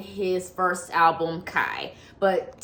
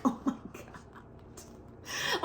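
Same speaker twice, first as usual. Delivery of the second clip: whispered, slow, drawn out; hushed stunned gasp of words; breathy oh my God; 4 semitones higher, 14 dB quieter, much slower than usual. Retold or imitated. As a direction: mouth it in disbelief. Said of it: "I'm like".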